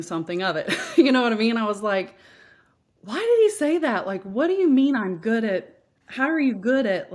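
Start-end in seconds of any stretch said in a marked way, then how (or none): 3.0-7.1 baffled self-questioning. Retold or imitated. Puzzling over the compliment.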